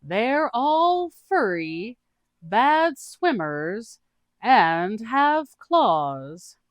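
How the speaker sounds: high, slow, drawn-out goofy voice; a dim, cheerful adventurer explaining cats; the speaker's character voice. Acted. The speaker tells the group about cat people, high and slow.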